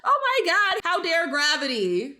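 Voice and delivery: high, loud mock-outraged cry; mock screaming. Jumper screaming at gravity while falling from an airplane, hammed-up. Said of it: "as I'm screaming to my death".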